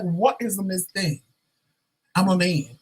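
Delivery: lightly indignant retort, a little high; giving him the business. Acted. Closeted man rebuffing a coworker's nickname, mock indignation. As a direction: act mildly affronted at the nickname. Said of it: "I was giving him the business".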